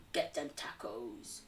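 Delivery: low, slow American cowboy voice; Kentucky cowpoke accent. Acted. English streamer faking an American, Kentucky cowpoke accent. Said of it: "like a Kentucky horse riding cowpoke".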